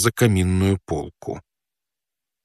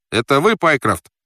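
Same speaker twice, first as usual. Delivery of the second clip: mild raised-pitch call through a door; 6 semitones higher than usual. Acted. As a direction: call out to someone behind a door. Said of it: "закричал я". (негромкий выкрик, чуть выше обычного)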